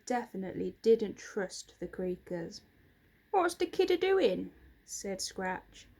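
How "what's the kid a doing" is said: high, loud goblin creature; a curious little creaker peering up; sneaky storybook goblin asking. Acted.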